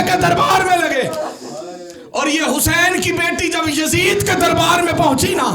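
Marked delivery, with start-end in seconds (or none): 2.1-5.5 loud recital. Acted. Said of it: "मैं आखिरी जुमला पढ़ने लगा हूं".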